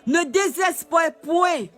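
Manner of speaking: preacher urging the faithful, forceful; emphatic. Real, not acted. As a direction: hammer the exhortation home. Repeated prophetic exhortation.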